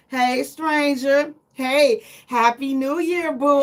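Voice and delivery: slow, coy hey stranger; flirty text voice; flirty greeting. Pretend. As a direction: sweet-talk an old flame.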